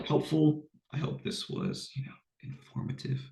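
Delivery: flat, congested sick voice. Real, not acted. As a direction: talk through a cold, flat and tired. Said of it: "I don't sound like a robot".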